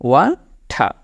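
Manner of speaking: ওয়াঠা as a closing demo with an aspirated th; pronounced wah-thah. Shown as a demonstration. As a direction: give ওয়াঠা a final slow falling model. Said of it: "এই টাইপের একটা উচ্চারণ হবে".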